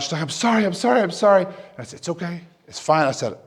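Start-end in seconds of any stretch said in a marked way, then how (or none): 0.2-1.4 higher, mildly frantic retold apology; freaking out. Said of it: "She's sobbing. She's, she's freaking out". 2.0-3.1 soft retold reassurance; gently calm someone who is upset; reassuring. Retold reassurance of sobbing girl.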